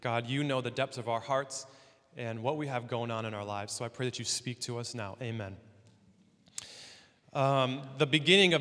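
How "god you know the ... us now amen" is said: subdued prayer, settling lower and softer. Real, not acted. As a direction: pray sincerely for the congregation, letting it sink to a hush. Leads an opening prayer.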